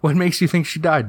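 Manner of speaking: high mother voice; concerned mom. Acted. Mom questioning worried child, high concerned voice.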